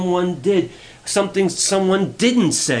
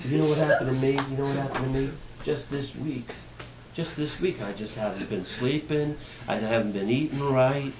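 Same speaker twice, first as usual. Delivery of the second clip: self-pitying oversharer; 6 dB quieter than usual. Pretend. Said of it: "I'll play it out for you".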